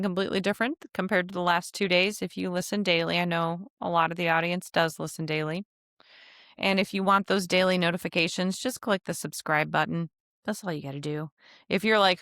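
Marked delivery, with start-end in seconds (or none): 2.2-11.3 blocked nose from allergies, nasal; talking through a stuffy nose. Real, not acted. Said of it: "her super nasally voice".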